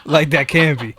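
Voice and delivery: laughing through the words. Real, not acted. Speaker cracking up at his own complaint, laughing. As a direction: giggle while getting it out.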